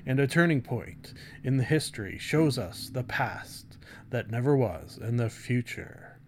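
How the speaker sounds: light dramatic trailer read with weighty pauses; William Shatner style. Acted. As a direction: loosely ham up the blurb like a movie trailer. Continues dramatic blurb reading.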